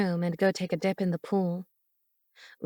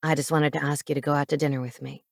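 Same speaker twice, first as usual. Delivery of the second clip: quick low man's voice; 5 semitones lower, faster than usual. Acted. Cade rushed ask.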